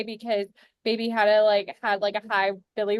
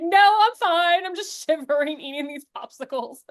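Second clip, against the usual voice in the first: laughing reassurance; 5 semitones higher than usual. Retold or imitated. Shivering mom insists she's fine.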